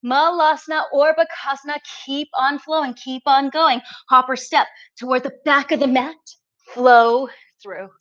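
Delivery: trembling voice from effort; shaky voice. Real, not acted. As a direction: voice quivering while holding the pose. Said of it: "You can hear my voice shaking".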